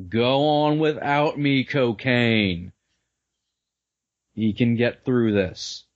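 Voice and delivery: slow, hammy dying words; milk the last words slowly; overacted death scene.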